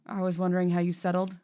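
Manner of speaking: understated attempt at an Irish lilt; almost-Irish accent. Mister Gold checking on the new housekeeper, almost-Irish accent. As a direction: read it in a tentative Irish-ish accent. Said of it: "I'm almost doing Irish".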